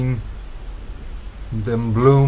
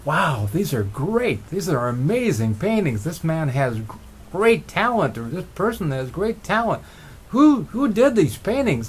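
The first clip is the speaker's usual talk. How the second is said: amazed; 5 semitones higher than usual. Retold or imitated. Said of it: "I think he was amazed".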